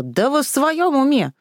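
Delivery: mild acted scream; shouting in pain. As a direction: cry out from the sudden wound. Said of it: "закричала".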